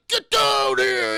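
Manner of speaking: slow, high, loud shout; mock yell. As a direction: bark the order up at him. Wrestler yelling at Peter.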